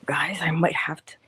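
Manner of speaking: nauseous. Real, not acted. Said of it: "I'm feeling rather nauseous this morning".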